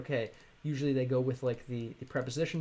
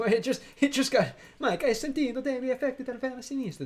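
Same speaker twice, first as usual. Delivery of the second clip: laughing; 10 semitones higher, 4 dB louder than usual. Real, not acted. Cracking up reading a comment.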